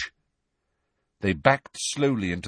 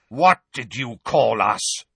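slow, louder, outraged; angry shout; 4 dB louder than usual. Acted. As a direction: demand it, outraged. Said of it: "shouted a wild-looking black centaur".

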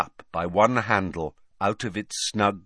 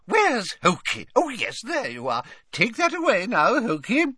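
put-on old lady voice. A narrator's reading. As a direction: coo it like a doting old woman. Old witch ordering elf.

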